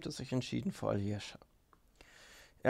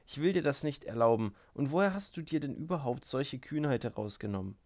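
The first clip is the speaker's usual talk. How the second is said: hysterical. Acted. Gruschenka rounds on Rakitin, hysterical edge. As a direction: let it tip toward hysteria. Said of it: "hysterische Klänge zu vernehmen".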